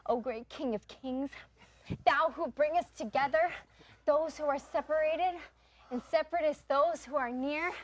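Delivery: mock prayer. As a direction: pray to the dollar in hammed-up reverence.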